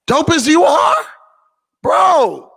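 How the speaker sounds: high and loud, gushing dope as you are; big hype; excited praise. Real, not acted. Telling the photographer he's dope, excited.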